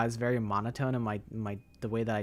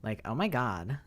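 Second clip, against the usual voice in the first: put-on valley girl demo. Shown as a demonstration. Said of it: "Jekka sounds like this".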